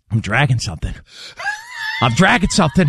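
dad's rant building to a shout; mounting mock fury; angry dad. Son retelling his dad yelling while dragging a cord, building from tense to shouting. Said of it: "And he's like".

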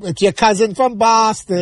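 mock Boston accent, drawn out. Fan recalling a beer commercial catchphrase, mock Boston accent. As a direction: imitate the beer ad's slow Boston accent. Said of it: "You know that commercial".

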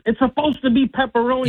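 retold rage. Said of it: "So now I'm in a rage".

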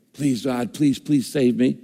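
a slow, slightly hushed mock plea; mock begging. Believer pleading with God to be saved, mock begging. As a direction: lightly imitate someone begging, drawing it out. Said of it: "You don't have to beg".

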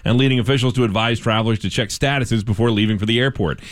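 steady radio news delivery; measured news-anchor reading. Acted. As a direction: read it as a local newscast. Reads news stories.

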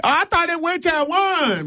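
high whiny mock voice; mock confused attendee. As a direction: imitate a confused latecomer. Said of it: "don't be like".

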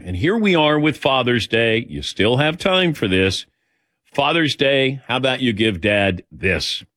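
radio host's live sponsor read; smooth commercial delivery. Real, not acted. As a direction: pitch the product to listeners. Host reads sponsor ad.

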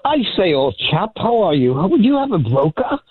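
lightly voiced posh English "old chap"; British accent. Caller greets the host in a mock British accent. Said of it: "I figured I'd do a little accent".

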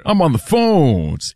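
slow, exaggerated silky host impression; smooth buttery voice. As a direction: teasingly imitate the producer, stretching the words slowly. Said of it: "I don't sound anything like that".

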